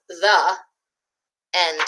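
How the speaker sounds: put-on gentle picture-book narration for young listeners; storybook reading. A narrator's reading. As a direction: read it like story time for little ones.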